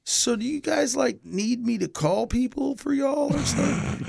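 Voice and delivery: a lightly voiced hazy friend offering help; slow stoner voice. Friend on the phone offering help, slow and hazy. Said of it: "he's like".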